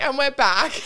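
giggly retelling of the toast; mock cheery toast. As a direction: laugh through it. Repeated toast quote.

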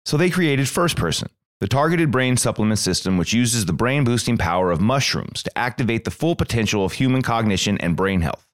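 scripted sponsor read. Acted. Host pitching brain supplements to listeners, scripted ad read. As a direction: read it as a podcast commercial.

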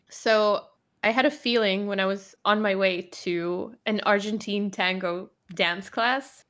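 casual American-accented storytelling. Shown as a demonstration. Telling a tango class story on request, American accent. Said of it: "tell the story in American".

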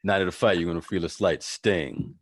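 lightly voiced low gangster; feed the line as a low-voiced boss; hint of a Rhames impression; Ving Rhames. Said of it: "you want me to be Ving Rhames?".

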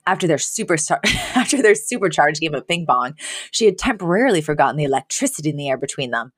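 reading a story aloud; story narration. A narrator's reading. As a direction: read it like a story. Reads fan fiction aloud.

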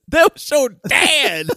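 amused reveal. Retold or imitated. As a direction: land it like an amused punchline.

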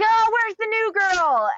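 high mock-cheerful call, drawn out; imitating the co-director. Co-director calls out for the new girl, mock-cheerful and high. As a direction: play the sing-song director looking for the new girl. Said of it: "he's like".

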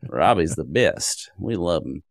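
imitated country folk with a rural accent; lightly put-on rural accent. Locals praising the volunteer web helper, in a mock rural accent. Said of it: "everybody you talk to has a, a rural accent in mind".

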